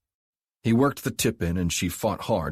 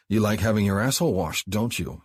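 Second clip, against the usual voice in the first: more insistent tease; 3 semitones higher than usual. Acted. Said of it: "he repeated".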